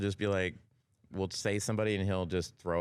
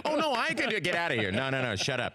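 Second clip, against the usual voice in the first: mock protest; 3 semitones higher than usual. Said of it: "You're like".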